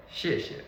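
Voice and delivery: 谢谢 short, second syllable light and unstressed; correct natural pronunciation. Shown as a demonstration. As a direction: say 谢谢 as one quick falling word. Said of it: "the correct way to pronounce it is".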